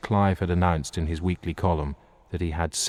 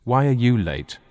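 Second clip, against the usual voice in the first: demanding; 6 semitones higher, 5 dB louder than usual. Acted. Guests demanding in chorus.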